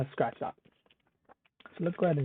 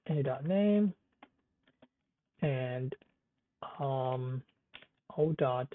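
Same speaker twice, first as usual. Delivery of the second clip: chewing gum; slower than usual. Real, not acted. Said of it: "sorry, I'm chewing gum".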